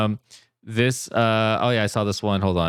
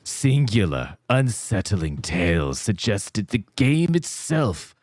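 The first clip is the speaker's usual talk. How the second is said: spooky voice; 4 semitones lower than usual. Acted. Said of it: "Do it with a voice".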